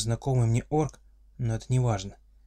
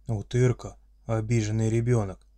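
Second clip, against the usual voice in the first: friendly monster voice; 3 dB louder than usual. Acted. Orc father speaks.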